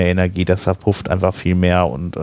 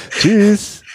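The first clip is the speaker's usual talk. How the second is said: laughing goodbye; 11 semitones higher, 4 dB louder than usual. Real, not acted.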